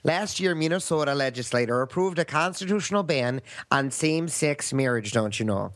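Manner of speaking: put-on folksy Minnesota accent, long vowels. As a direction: read it like a Minnesotan. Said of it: "speak in a Minnesota accent if you can".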